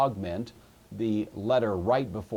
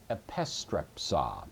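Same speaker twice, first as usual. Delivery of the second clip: slow, lower "epistrepsa", stressed on PIS; antepenult stress; 4 semitones lower, slower than usual. Shown as a demonstration. Teacher reciting the third principal part, antepenult stress. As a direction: say "epistrepsa" slowly, accenting the second syllable "pis". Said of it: "put the accent on the antepenult".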